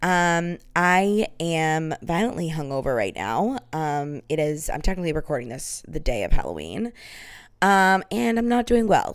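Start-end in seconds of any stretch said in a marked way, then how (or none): 0.8-6.9 croaky morning-after vocal fry. Real, not acted. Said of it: "So I bet my vocal fry is out of control".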